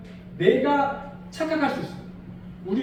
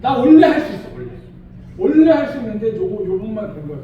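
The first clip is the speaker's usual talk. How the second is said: laughing confident boast; 7 dB louder than usual. Shown as a demonstration. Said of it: "그러든지".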